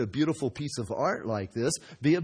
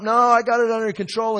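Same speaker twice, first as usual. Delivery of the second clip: mock insistent reply; 10 semitones higher, 12 dB louder than usual. Potter answering the panicking pots.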